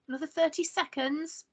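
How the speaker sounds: shout. Acted. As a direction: call back from the bedroom, stalling. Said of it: "I shout".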